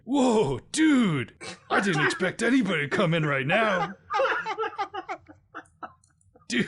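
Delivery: a laid-back dude caught off guard; startled surfer dude. Acted. Balding man surprised at his mirror, loud startled bro. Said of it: "portly man who is very balding".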